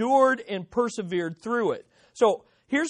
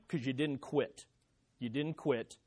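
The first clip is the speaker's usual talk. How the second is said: hushed repeat; 7 semitones lower, 10 dB quieter than usual. Real, not acted. Preacher repeats phrase, dropping away.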